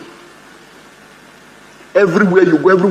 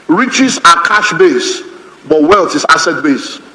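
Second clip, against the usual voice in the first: slow emphatic; 3 semitones lower, much slower than usual. Shown as a demonstration. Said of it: "slow emphatic teaching contrast".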